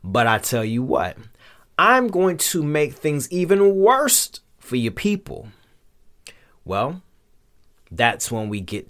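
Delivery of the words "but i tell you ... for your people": mildly indignant Pharaoh, rising to a higher threat. Acted. Pharaoh rebuffs Moses and his God, mildly indignant. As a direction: dismiss him, then push up into the threat. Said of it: "Pharaoh is indignant".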